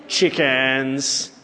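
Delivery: low, drawn-out mock taunt; teasing jeer. Preacher ribbing listeners who haven't voted, teasing. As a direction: tease them with one stretched word.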